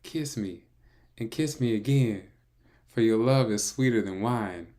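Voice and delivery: lady voice. Acted. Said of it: "we gotta do the lady voice".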